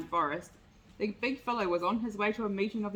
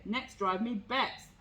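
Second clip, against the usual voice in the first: growling bear; slower than usual. Acted. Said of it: "growled the bear".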